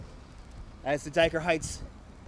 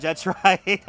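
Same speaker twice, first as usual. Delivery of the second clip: laughing; 6 dB louder than usual. Real, not acted. Laughing while agreeing.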